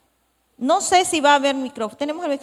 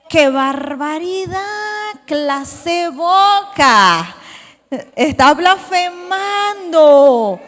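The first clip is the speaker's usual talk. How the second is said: mock scandalized; much slower than usual. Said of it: "Es lo primero que nosotros diríamos".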